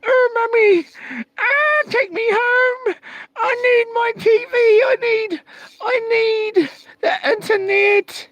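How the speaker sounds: high-pitched, whiny crybaby voice; mock crying. Mocking someone who went off the grid, fake high-pitched crying. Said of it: "you'd frickin' cry to yourself".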